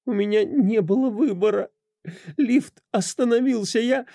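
high, tearful pleading; crying. Acted. A crying wife explains the murder to her husband, tearful. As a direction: sob through the explanation. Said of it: "не переставая плакать".

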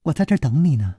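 understated mocking taunt; cold sneer. Stranger peeking round the corner at his pursuer, cool sneer. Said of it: "冷笑着说".

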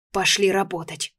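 hoarse command; hoarse order. Acted. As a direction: rasp the order. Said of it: "хрипло велела я".

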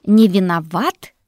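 slow, loud, doubting question; skeptical echo. Acted. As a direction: throw his words back at him. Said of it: "скептически переспросила Мэгги".

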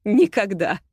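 contemptuous, smirking refusal; scornful smirk. Acted. Агата refuses Ирма with a contemptuous smirk. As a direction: sneer it out with a smirk. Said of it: "презрительно усмехнулась она".

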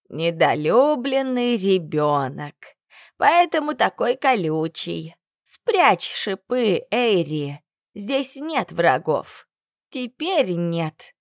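slow, gentle grandmotherly voice; tender soothing. Acted. Old woman calms the unloved girl, slow and tender. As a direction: soothe the prickly girl slowly.

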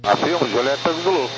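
radio transmission; over a crackly radio; crackly military radio. Real, not acted. Pilot answering tower on radio.

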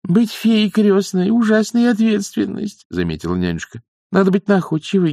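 high nanny character voice; persuasive old nanny. Acted. Nanny talks young witch out of the wand, persuading.

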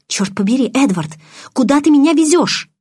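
возмущённо, выше и громче к концу; потребуй ответа, срываясь вверх; возмущённый крик. A narrator's reading. Героиня требует ответа в машине. (возмущённо)

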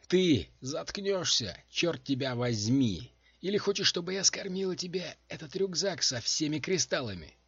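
loud, high threatening outburst; angry snarl. A narrator's reading. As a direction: threaten him to shut him up. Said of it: "зарычала Дженси".

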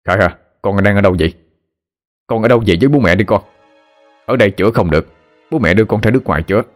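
urgent, rushed. Acted. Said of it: "rồi nói gấp".

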